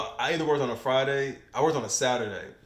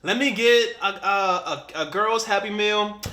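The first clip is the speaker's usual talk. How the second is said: lightly voiced mom at the counter, higher pitch; a higher-pitched imitation of a customer ordering; mother ordering; 5 semitones higher, slower than usual. Mother ordering in retold story.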